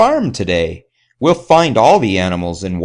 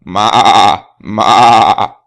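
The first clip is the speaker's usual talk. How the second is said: a loud goat "ma" bleat; 7 dB louder than usual. Acted. Reading to children, the goat bleats loudly. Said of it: "that's the goat".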